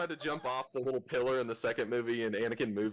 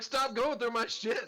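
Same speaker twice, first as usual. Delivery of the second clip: higher, slow and fed up, Stop going through my shit; 13 semitones higher, slower than usual. Retold or imitated. Telling a snooping friend to stop, fed up and slow. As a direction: drag it out with annoyance. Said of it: "It's like".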